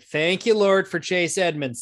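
mock prayer of thanks for a player; relieved thanks. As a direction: relief bursting out. Retells relieved reaction to player.

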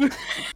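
wheezy laugh. Real, not acted. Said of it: "wheeze laugh".

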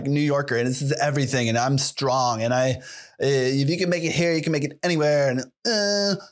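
lightly put-on New Yorker of no clear accent; mildly mocking self-important city transplant; a hint of a boastful New York transplant; New York turd. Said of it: "I don't know what this accent is".

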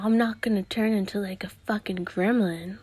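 hushed whisper. Acted. Whispering the threat of turning into a gremlin. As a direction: breathe it out like a secret.

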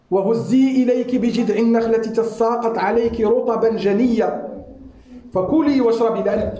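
rapid chanted Quranic recitation. Acted. Preacher recites the verse to the congregation, fast and chanted. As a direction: recite the verse in one quick flowing breath.

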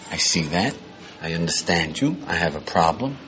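calm understanding. Shown as a demonstration. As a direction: acknowledge him gently before objecting. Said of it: "Back and forth with".

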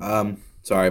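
talking through a mouthful of Cheez-Its; words round a mouthful of crackers; mouth full. Real, not acted. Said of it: "my mouth was full of Cheez-Its".

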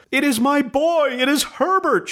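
high, wild maternal cry; frantic cry. A narrator's reading. Mother struggling toward the door, crying out. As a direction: cry out desperate for her son. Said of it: "she cried".

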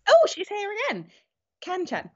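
high, unvoiced conspiratorial whisper. Real, not acted. Host whispering to co-host about a returning listener. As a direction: whisper it like sharing a secret.

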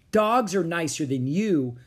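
slightly high, pointed comeback; defiant retort. Acted. Annie to the pirate captain, defiant retort. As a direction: talk back boldly.

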